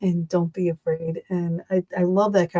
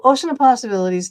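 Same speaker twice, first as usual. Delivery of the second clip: quick recap; 4 semitones higher, 4 dB louder, faster than usual. Real, not acted. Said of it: "Um, so".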